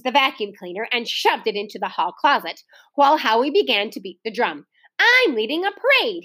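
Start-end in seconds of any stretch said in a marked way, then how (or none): 5.0-6.2 a touch of a high proud shout. A narrator's reading. Boy beating the drum announcing his parade. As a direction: announce it boastfully. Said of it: "he shouted".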